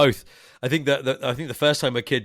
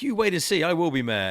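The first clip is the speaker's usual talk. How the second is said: higher-pitched, lively film impression; defiant boast; 7 semitones higher, 3 dB louder than usual. Quoting the film's hopeful mayor, defiant boast. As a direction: proudly voice the would-be mayor. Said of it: "And he's like".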